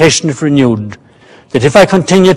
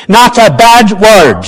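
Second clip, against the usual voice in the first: mocking slowness; 6 semitones higher, 3 dB louder than usual. A narrator's reading. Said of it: "he repeated with mocking slowness".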